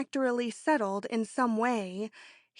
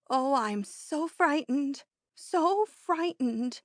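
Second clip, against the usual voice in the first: slow, higher, trembling plea; frightened; 4 semitones higher, slower than usual. Acted. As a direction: stretch it out like a scared woman. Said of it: "she kept saying".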